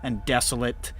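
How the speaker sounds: game master narration. A narrator's reading. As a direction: set the scene for the players. GM describes the cavern scene.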